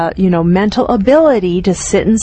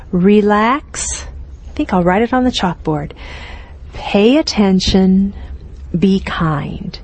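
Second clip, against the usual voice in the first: mantra. Shown as a demonstration. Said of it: "as a mantra".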